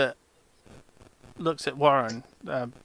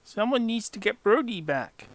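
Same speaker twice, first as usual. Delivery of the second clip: higher goblin voice, repeated; 5 semitones higher than usual. Acted.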